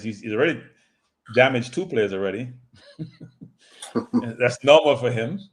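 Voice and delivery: eating chips while talking; crunching chips. Real, not acted. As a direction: talk through a mouthful of chips. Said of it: "The chips are loud".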